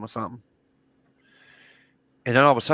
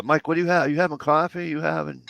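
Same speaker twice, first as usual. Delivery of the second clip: lightly voiced stepmother, higher and louder; stepmother calling out; 8 semitones higher, 6 dB louder than usual. Stepmother asks father what he is having, calling out. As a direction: call out the question in a higher voice.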